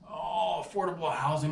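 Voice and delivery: high, lightly mocking voice for Jimmy; a mild whiny take on the coworker. CEO mocking coworker's idea, lightly high voice. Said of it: "He's like".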